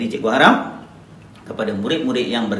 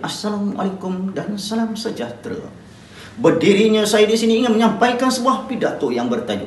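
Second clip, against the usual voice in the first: raised speech voice; 7 semitones higher than usual. Shown as a demonstration. Teacher demos announcing the speech title aloud. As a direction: announce it to the hall. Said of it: "kamu mainkan suara".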